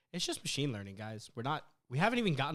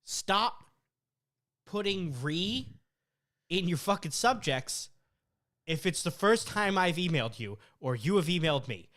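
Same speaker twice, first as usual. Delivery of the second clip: louder, higher, emphatic scolding; real exasperation, raised voice; annoyed rant; 5 semitones higher, 5 dB louder than usual. Real, not acted. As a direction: lay down the law with pauses between phrases. Real rant at email senders.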